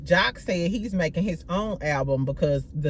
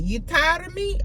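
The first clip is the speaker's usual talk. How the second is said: high-pitched mock Jamaican patois accent; playful put-on Jamaican accent; a dancehall singer's accent; 10 semitones higher than usual. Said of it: "trying to do it in her accent".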